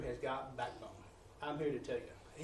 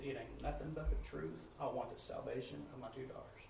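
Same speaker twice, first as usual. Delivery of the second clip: softer, fading retold whisper; hushed plea; 2 semitones lower, 8 dB quieter than usual. Mother quietly asks the preacher to pray for her daughters, softer. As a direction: hush it like a private request. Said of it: "she just whispered it to me".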